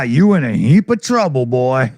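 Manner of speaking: a lightly voiced Southern sheriff warning a boy; Jackie Gleason sheriff. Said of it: "Jackie Gleason".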